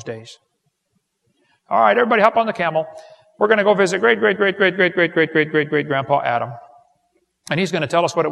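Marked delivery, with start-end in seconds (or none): 1.7-6.5 excited call to the family. Pretend. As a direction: round everyone up like an eager tour guide. Family reunion call to board camels.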